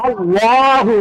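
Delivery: আল্লাহু with a heavy, rounded লা; thick pronunciation. Shown as a demonstration. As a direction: make the লা in আল্লাহু full-mouthed. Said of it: "আল্লাহুকে আমরা পড়বো". (আল্লাহু-র লা মোটা করে পড়া)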